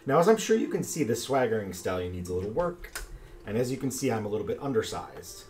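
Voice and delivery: man doing a woman's voice; creaky warbling old lady. Acted. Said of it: "warbling little lady voice".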